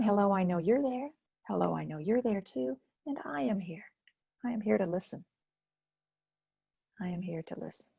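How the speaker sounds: soft, fading, gentle greeting; tender reassurance. Shown as a demonstration. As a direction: reassure each part kindly. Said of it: "And I say to each one".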